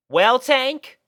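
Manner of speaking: high, loud easy tone; relaxed Rainbow. A narrator's reading. Rainbow lying in the grass talking to Tank. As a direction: settle back and say it. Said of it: "she spoke".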